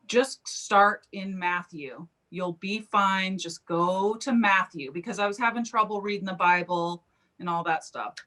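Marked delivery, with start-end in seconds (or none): 0.1-4.9 gentle reassurance. Retold or imitated. Jesus gently reassures her in a dream, slow and kind. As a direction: calmly reassure a struggling reader. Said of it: "And he was like".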